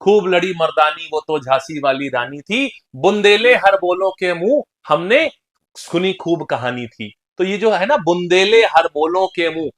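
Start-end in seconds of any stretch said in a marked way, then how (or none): 0.0-7.1 rhythmic verse with drawn-out phrases; poem recitation. Shown as a demonstration. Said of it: "बचपन में हम लोगों ने पोएम पढ़ी थी". 8.0-9.7 slow, metred verse; poem recitation. Shown as a demonstration. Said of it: "बचपन में हम लोगों ने पोएम पढ़ी थी".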